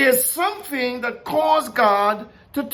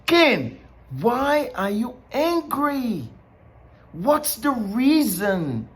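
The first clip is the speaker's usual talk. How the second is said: lightly voiced God, slowly questioning; honest questioning; slower than usual. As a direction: draw out an earnest question to Cain. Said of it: "it's an honest question".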